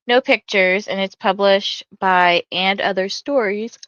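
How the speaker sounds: talking through a yawn. Real, not acted. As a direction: say it mid-yawn. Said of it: "I'm so sorry, I'm yawning".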